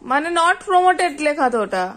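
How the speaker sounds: "not promoted" stretched slowly; slow reading. Shown as a demonstration. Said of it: "mother reads it out slowly".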